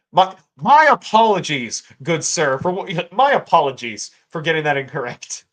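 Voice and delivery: bow and scrape, tongue in cheek; mock formal apology. Apologizing to a viewer, ironic grand apology. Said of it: "Uh, unironically".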